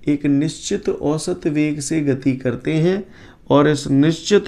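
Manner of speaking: slow, careful dictation with the key lines leaned on; teacher repeats the definition slowly for students to note. Shown as a demonstration. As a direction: read it out slowly for students to copy. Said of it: "एक दो बार फिर से बोल रहा हूँ, ध्यान से सुन लो".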